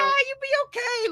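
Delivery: high, mock-tender medic voice; playful field medic. Host playing a medic to his wounded co-host, mock tender. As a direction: pretend to patch up a wounded buddy.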